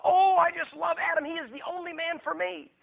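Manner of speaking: hammed-up lovestruck gushing; mock swooning. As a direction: gush like a smitten girl. Mocking a woman's swooning answer.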